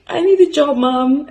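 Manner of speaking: put-on high, loud, pleading kid voice; imitating her younger self begging Mum for a job; scared little girl. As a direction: beg Mum like a frightened girl. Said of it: "such a scared little girl".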